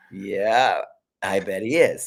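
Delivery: breathy knowing "yeah, I bet he is"; doctor teasing her about her husband, hushed and knowing; sly doctor whisper. Retold or imitated.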